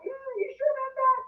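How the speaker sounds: very high, doubtful questioning voice; skeptical squeak. Retold or imitated. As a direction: question it in a tiny high-pitched voice. Acting out her own doubting reply.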